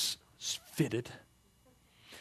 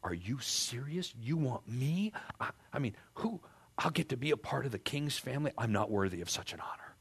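a touch of awed humility; humble amazement; 3 semitones higher than usual. Retold or imitated.

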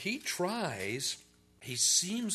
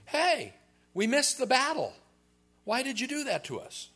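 mock whining; 11 semitones higher, 4 dB louder than usual. Voicing whining Ephraimites.

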